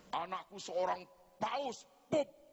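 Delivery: slow, drawn-out boast rising to a high squeal on Pope; proud mother's boast. Retold or imitated. Mother boasting to the other mothers, rising to a squeal. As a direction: show off the son like a proud mother.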